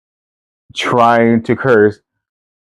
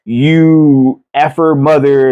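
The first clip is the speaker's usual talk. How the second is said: slow, slightly higher mock curse from grandpa; imitating grandpa cursing; 4 semitones higher, much slower than usual. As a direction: drag out a garbled insult like grandpa. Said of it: "could not put words in order right".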